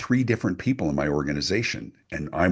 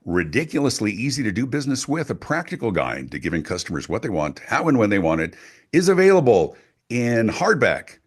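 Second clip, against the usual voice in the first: radio voice; 3 semitones higher than usual. Shown as a demonstration. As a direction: plug the book like a radio spot. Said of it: "Sounded very radio".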